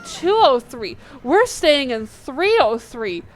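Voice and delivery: emphatic mock alarm at a mistake; mildly panicked, punched-out realization; retold panic. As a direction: act out the dawning panic. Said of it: "So I'm panicking".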